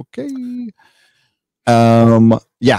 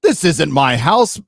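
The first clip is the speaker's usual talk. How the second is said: high cat voice; 5 semitones higher than usual. Retold or imitated. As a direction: squeak it out as a lost cat. Voicing the intruding cat, high.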